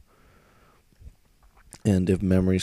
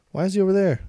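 baffled; 11 semitones higher, 5 dB louder, much faster than usual. Real, not acted. Confused by character position.

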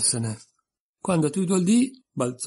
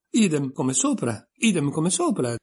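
a mild shouted chant, rising higher; 5 semitones higher, 4 dB louder than usual. Acted. Twin shouting back at Alice, mild hammed-up yell. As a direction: bellow it like a taunt, lightly. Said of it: "gridò Tweedledee".

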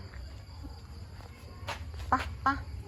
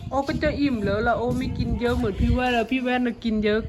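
voicing the dog. Owner speaking for her dog, lightly voiced pet.

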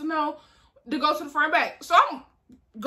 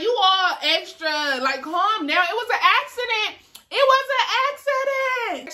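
pleading innocence; 5 semitones higher than usual. Retold or imitated. Pleading it was an accident.

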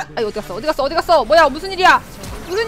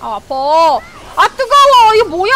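pained yell; 5 dB louder, slower than usual. Real, not acted. Streamer hit in game.

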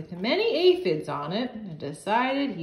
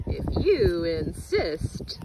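sweet. Acted. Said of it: "said the l- nice ladybug sweetly".

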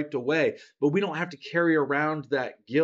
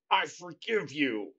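slow, softer, reluctant "I forgive you"; grudging forgiveness; 5 dB quieter, slower than usual. Retold or imitated. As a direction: forgive through a scowl, clearly not meaning it. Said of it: "That's not from your heart".

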